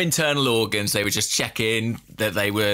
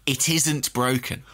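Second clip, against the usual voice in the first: ordinary talk, nothing marked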